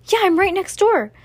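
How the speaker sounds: high, loud call. A narrator's reading. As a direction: shout back to someone next door. Calling back through the wall.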